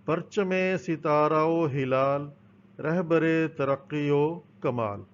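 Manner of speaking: slow, measured anthem recitation; reciting a verse. Shown as a demonstration. Teacher recites the national anthem verse to pupils, slow and measured. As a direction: recite the line slowly and evenly. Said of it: "ایک اور شعر ہے،".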